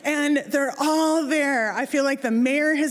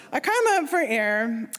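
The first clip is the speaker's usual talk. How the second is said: plain reading voice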